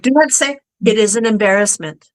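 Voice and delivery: quoting sister. Retold or imitated. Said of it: "She's like".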